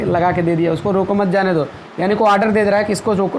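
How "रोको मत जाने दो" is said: "रोको मत जाने दो" in one unbroken run; no break between "रोको" and "मत"; without comma pause. Shown as a demonstration. Teacher reading the order without comma, "रोको मत" joined. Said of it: "अगर इस तरह से कामा नहीं लगा के".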